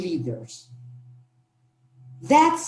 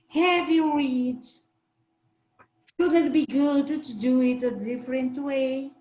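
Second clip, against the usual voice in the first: very friendly. Shown as a demonstration. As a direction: ask gently, like an open invitation. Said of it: "say it very friendly".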